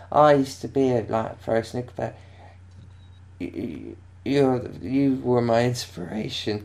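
lightly acted drunken confession; falling-over drunk. Drunk fan telling Jimmy about his inspiration, mildly drunken gushing. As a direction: stumble through it like a wobbling drunk fan. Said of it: "like, falling over drunk".

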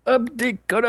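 high excited echo of the title; announcer voice. Acted. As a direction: shout it like a show jingle. Echoing segment announcement.

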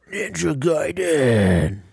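growl. Pretend. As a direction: growl out the game title theatrically. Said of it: "That's not really a good growl".

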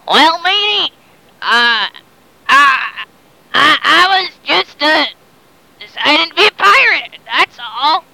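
lightly voiced pirate, stammering; a hint of pirate, halting over the excuse; pirate talk. Long John Silver explains his pirate talk, stammering lightly voiced pirate. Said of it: "talking like a pirate now".

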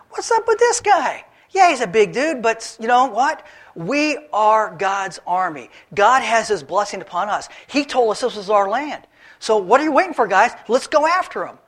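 rally the troops with youthful zeal; a brash kid urging the soldiers to charge, high and loud; eager young David. Acted. Young David rallies the army.

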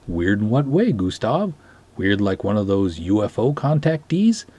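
lightly voiced Scandinavian Sven and Gustav; hint of a Nordic lilt in a comic serial; Scandinavian characters. Gustav tells his old friend Sven about the girl, in a light Scandinavian accent.

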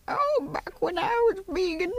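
put-on high, slow creaky old-timer; old-timey voice. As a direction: imitate a doddering old-timer, slowly. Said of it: "He always does the old-timey voice".

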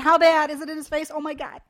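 high, loud panicked questions; freaking out. Retold or imitated. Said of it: "'cause I'm freaking out right off the bat".

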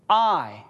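"I" set alone as one stressed word; emphatic I. Shown as a demonstration. Preacher quoting Jesus to the class, "I" said emphatically. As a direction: land firmly on "I" and stop. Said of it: "and it's emphatic".

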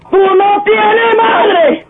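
slow, furious shout. Acted. Old super yelling at the jealous husband, slow furious shout. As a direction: drag each word out in rage.

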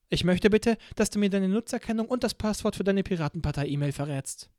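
a clipped-polite demand from a torturer; cold interrogator. Acted.

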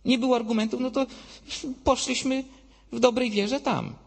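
high-pitched mock plea before God; acted-out pleading of the accused; pleading excuses. Souls making excuses at God's judgment.

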